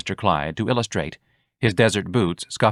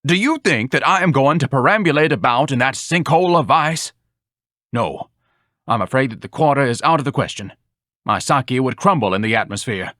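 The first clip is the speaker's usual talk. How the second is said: lightly voiced grandiose blowhard, a bit higher; mildly hammed-up pedant; pompous Ignatius; 4 semitones higher than usual. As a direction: declaim like a self-important scholar.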